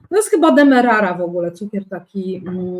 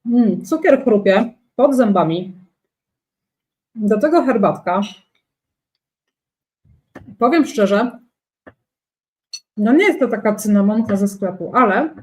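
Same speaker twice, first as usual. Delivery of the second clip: chewing while talking. Real, not acted. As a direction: mouth full of food. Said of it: "Bosacka nie mów z pełnymi ustami".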